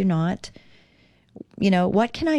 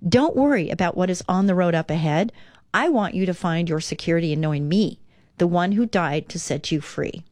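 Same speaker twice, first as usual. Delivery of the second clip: calm devotional read-aloud. Acted. Reads Jesus's words from devotional.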